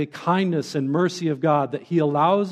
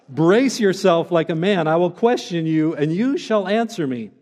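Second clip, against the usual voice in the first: louder, stern and mocking; stern sarcasm; 2 semitones higher, 4 dB louder than usual. Shown as a demonstration. Pastor rereads God to Job with stern sarcasm. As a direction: let God's sarcasm bite, pushed out loud. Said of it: "I just have to hear sarcasm in this".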